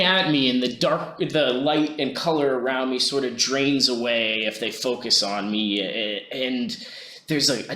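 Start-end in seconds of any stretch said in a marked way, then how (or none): none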